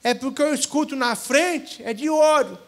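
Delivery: high, amused voice of a simple peasant; peasant's realisation. Acted. Peasant explaining the shield to the warriors, amused. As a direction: tease them with the obvious answer.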